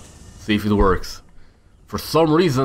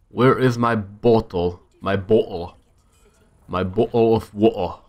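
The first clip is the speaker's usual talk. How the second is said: playful British with rounded "bottle"; amateur British accent; 2 semitones lower than usual. Pretend. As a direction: do a not-so-good British accent. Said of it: "my British accent is not the best".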